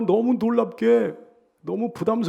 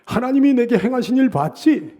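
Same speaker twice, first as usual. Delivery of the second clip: loud, high shout of vindication; exultant preacher's shout; triumphant boasting; 7 semitones higher, 8 dB louder than usual. Acted. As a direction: crow it at your enemies, building louder and higher. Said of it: "자기의 입이 크게 열렸다는 거예요".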